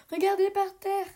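high, bright call to look down; excited discovery. A narrator's reading. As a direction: point it out, thrilled. Paloma discovers hoofprints. (découverte enthousiaste, plus aigu)

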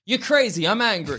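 deliberately unnatural, crazy first, then angry; stilted demo line. Shown as a demonstration. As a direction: try the two lines as an awkward demonstration. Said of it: "You tell me if this looks like a thing".

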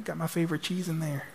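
high, quick mock complaint; retold yelling without real volume; mock scream. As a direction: imitate a husband fussing at his wife. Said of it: "he's screaming at her".

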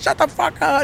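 high mock shout; retold police order. Officer silencing the protesting suspect, high mock-angry shout.

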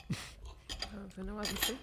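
talking with a mouthful; words round a bite of food; mouth full. Real, not acted. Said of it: "Parle la bouche pleine".

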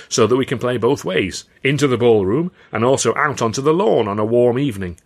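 loud, booming impresario selling a vision; grand showman Carno. Acted. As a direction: proclaim it like a proud showman to his company. Carno addresses his troupe.

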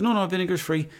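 put-on high-pitched Italian shopkeeper accent. Italian fella answering a young customer, Italian accent. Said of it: "So the Italian fella goes to me".

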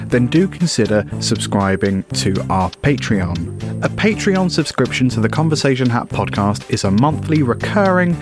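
upbeat advert voiceover; ad read. Acted. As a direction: read it like a podcast ad. End-of-show advert read.

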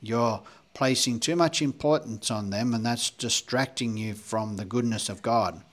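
lightly put-on preachy voice; mock-pious, with a hint of sarcasm; sarcastic religious voice. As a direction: play at sanctimonious advice-giving. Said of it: "that was my sarcastic, religious voice".

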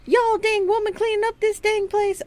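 channel a cartoon cowboy; Yosemite Sam accent. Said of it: "sounds like Yosemite Sam".

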